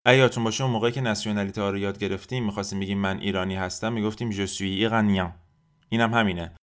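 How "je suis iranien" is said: "iranien" ending in a nasal vowel, n silent; "iranien" as ee-ra-NYAN without a sounded n. Shown as a demonstration. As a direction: say the end of "iranien" through the nose. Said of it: "مدل نزلاشون".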